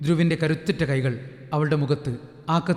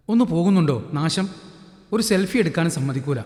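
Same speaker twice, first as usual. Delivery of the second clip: put-on annoyed teen girl. Deeksha shoos her sister away, irritated. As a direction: brush off the pesky little sister.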